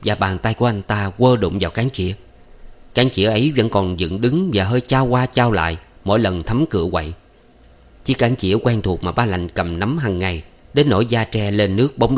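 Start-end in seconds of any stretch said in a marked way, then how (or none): none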